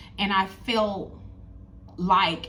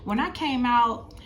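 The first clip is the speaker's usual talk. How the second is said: lightly voiced little girl, higher; child's voice; 5 semitones higher than usual. Daughter asking her mom why she cried, lightly voiced child. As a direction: ask like a curious four-year-old, a touch higher. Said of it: "she said".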